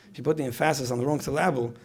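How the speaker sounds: joking mis-stress, "emphasis" as em-FASS-is, "syllable" as sil-LAB-le; wrong-syllable stress. Shown as a demonstration. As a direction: hit the middle syllable of "emphasis" and "syllable". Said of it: "people aren't gonna understand you".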